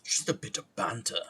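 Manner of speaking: light put-on British accent. Streamer playing with fun words, lightly British. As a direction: toss it off in mock British. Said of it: "My British accent is very violent".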